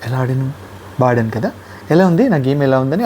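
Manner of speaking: fishing for praise, lightly mocked; mock boasting. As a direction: ask how you played, smugly teasing. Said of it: "అదో పెద్ద విషయంలాగా".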